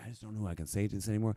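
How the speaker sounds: imitated whispering voice. Retelling what a lady in an antique shop said, imitating her whisper.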